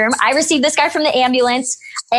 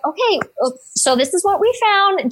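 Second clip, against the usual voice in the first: calming patient; 6 semitones higher than usual. Retold or imitated. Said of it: "Just trying to, you know, keep him calm".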